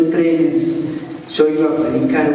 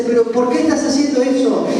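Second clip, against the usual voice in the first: higher-pitched urgent questioning; retold challenge, pressing for an answer; earnest confrontation; 7 semitones higher than usual. Pastor questions the backslidden robber, acted earnest confrontation.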